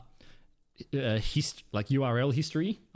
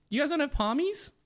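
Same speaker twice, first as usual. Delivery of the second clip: pitched way up in disbelief; disbelieving question; 14 semitones higher than usual. Real, not acted. Amazed New Zealand has no Palmies, high disbelief. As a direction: ask it like you can't believe it.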